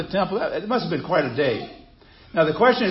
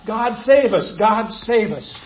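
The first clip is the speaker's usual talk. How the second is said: mild mock shout; 4 semitones higher, slower than usual. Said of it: "That's what they were shouting".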